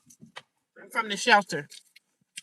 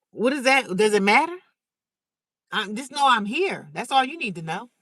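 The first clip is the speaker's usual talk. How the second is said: incredulous; 3 semitones higher, 6 dB louder than usual. Retold or imitated. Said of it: "I looked at him like".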